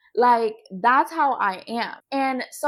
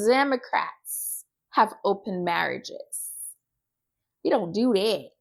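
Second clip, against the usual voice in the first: lightly imitated Texas twang, lower; 3 semitones lower than usual. Quoting a woman on open marriages, little Texas twang. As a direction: draw it out in a mock Texas twang. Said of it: "her little Texas twang".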